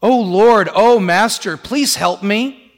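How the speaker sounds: loud pleading cry that slows down; a supplicant's loud plea; pleading woman. Retold or imitated. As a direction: beg the Lord for help, drawing out the last words. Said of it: "she's been really nice to him".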